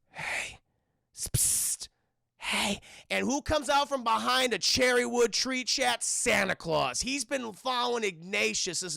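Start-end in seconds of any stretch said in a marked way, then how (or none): 0.1-2.8 furtive stage whisper. Acted. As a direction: whisper to get someone's attention unseen. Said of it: "someone whispers".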